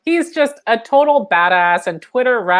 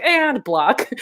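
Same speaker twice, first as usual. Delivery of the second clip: higher, amused brush-off; breezy dismissal; 5 semitones higher than usual. Retold or imitated. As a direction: dismiss them cheerfully, edging into a laugh. Acting own curt dismissal.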